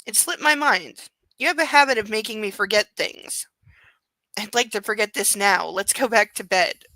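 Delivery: steady, even audiobook read; story narration. A narrator's reading. Reads the novel aloud.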